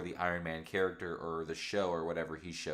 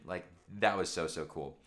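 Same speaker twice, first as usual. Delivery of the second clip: ordinary talk, nothing marked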